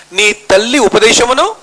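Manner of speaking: slow, rising on ఉపదేశమును; slow scripture quote. Acted. Preacher begins quoting the Bible to the congregation, slow. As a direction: set up the verse slowly.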